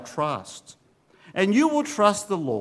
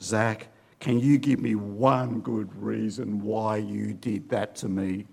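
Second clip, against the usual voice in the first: exasperated gasp; 8 semitones lower, 3 dB quieter than usual. Retold or imitated. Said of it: "I just gasped in exasperation".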